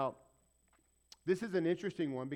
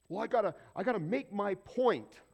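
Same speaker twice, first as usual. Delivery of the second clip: louder mock self-justifying objection; insistent protest; 3 semitones higher, 6 dB louder than usual. Preacher mimics people defending their cussing, insistent. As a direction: push the excuse out forcefully.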